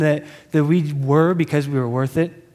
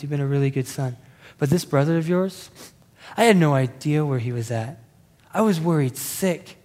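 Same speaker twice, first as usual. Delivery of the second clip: softer, gentle fatherly reassurance; tender father; 4 semitones lower, 4 dB quieter than usual. Retold or imitated. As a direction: soothe the angry son, arm around him. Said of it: "beautiful and wise response from the father".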